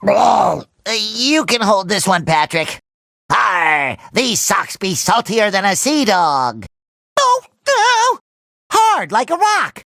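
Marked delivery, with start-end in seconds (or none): 3.3-6.7 pirate talk. Acted. Pirate talk about socks.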